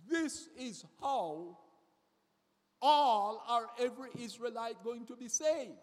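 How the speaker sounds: preacher voicing Paul's promise to the Jews; preaching Paul's words. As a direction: declare it as the apostle. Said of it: "Paul is saying to the Jews".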